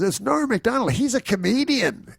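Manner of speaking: high, grand emcee voice slowing on the name; mock announcement. Organizer repeats the reveal.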